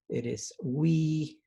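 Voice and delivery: slow, careful Zapotec word. Shown as a demonstration. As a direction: say it slowly for students to copy. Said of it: "one more time".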